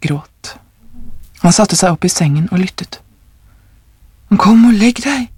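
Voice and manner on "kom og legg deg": affettuoso. A narrator's reading. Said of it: "sa han kjærlig".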